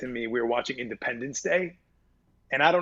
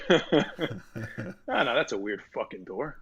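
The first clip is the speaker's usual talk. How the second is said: Carlos voice; much slower than usual. Acted. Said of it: "reprise your role as Carlos".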